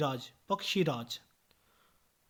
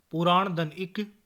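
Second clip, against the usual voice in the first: slow breakdown; 4 dB louder than usual. Shown as a demonstration. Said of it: "spelling out a word's parts".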